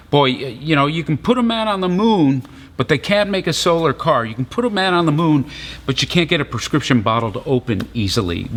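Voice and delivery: tossed-off stand-up bit, lightly voiced; comic rant. Preacher riffing on an old Seinfeld joke, lightly mock-exasperated. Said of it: "reminds me of that old Seinfeld joke".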